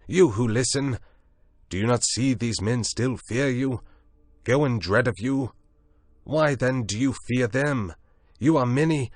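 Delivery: high, loud rallying shout. A narrator's reading. Prendick shouts past Moreau, rousing the beastmen. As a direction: rouse the crowd against them. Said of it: "shouting past him to the beastmen".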